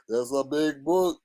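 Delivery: laughing softly through the line. Retold or imitated. Repeating the joke with a soft laugh. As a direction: chuckle while repeating it.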